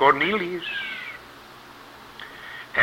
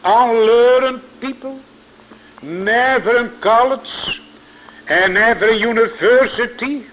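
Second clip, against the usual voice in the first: incredulous crowd; 7 semitones higher, 4 dB louder than usual. Retold or imitated. Preacher to congregation, voicing the doubting crowd, high and scornful. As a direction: raise it high and sneer out each doubt.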